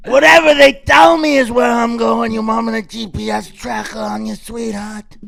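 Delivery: mock cop shouting at his wife; angry shout. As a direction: bark it at her in frustration.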